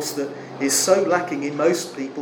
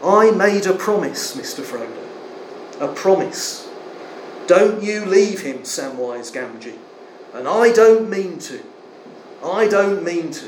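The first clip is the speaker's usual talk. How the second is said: earnest promise; 3 semitones higher, 3 dB louder than usual. Retold or imitated. Sam's tearful promise to Frodo.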